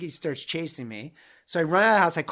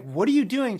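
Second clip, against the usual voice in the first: startled call; 6 semitones higher, 6 dB louder than usual. Retold or imitated. Woman at the window at night.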